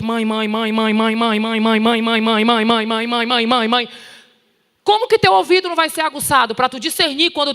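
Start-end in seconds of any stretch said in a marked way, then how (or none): 0.0-3.9 put-on child nagging mom. Preacher imitating her children calling her all day, insistent nagging. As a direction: imitate a kid who won't stop calling mom. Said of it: "tu escuta de manhã, de tarde, de noite".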